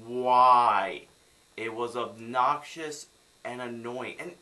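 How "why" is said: loud, stretched-out demand; frustrated, long loud question; exasperated cry. Real, not acted. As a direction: bellow it in disbelief. Exasperated at the fake accent.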